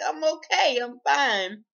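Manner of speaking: high, loud quick reassurance; protesting. Retold or imitated. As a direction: insist you're fine, voice shooting up. Protesting to watchful sister.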